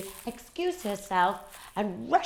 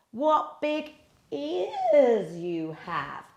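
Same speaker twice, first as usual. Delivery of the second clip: put-on slow, higher little girl; wondering little girl; 6 semitones higher, much slower than usual. A narrator's reading. Girl at the bed, slow wondering question. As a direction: ask slowly, in wonder.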